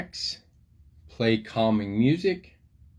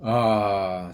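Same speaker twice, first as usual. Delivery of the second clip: relieved sigh; 3 dB louder than usual. Acted. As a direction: let the breath out with relief. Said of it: "sighed serotonin and dopamine".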